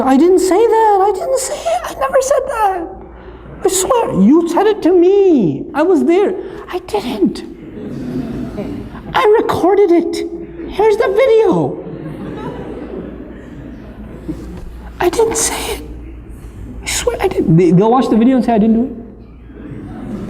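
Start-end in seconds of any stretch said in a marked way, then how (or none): 0.0-17.6 put-on high, whining child's voice denying everything; whiny lying kid. 18.5-20.3 put-on whispered, slow, guilty child denial; sheepish denial. Kid denies after video.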